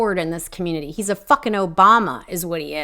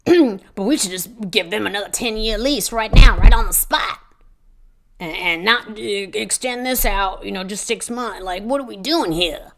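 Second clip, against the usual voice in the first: mocking Murray. Mocking Murray pushing ten-year lease.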